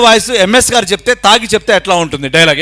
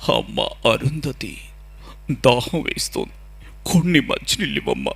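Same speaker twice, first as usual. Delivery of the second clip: slow, low, soft villain with heavy breaths; Arundhati villain; 7 semitones lower, 5 dB quieter, slower than usual. Acted. Mimic as the villain asking Arundhati for water, slow hushed menace. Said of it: "ఒరిజినల్గా dialogue ఎట్లా ఉంటుంది".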